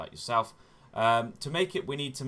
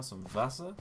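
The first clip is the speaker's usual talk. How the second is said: Wasser in a light mock German accent; bad German accent; 3 semitones higher than usual. Greeting German viewers, Wasser in a mock German accent. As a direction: toss off some Wasser in a jokey German accent. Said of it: "worst impression of a German accent".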